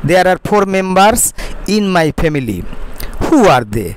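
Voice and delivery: very slow, careful English reading; slow model reading. Shown as a demonstration. Teacher reading the sentence slowly to students. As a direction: read it word by word for the class. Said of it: "slow model reading of English".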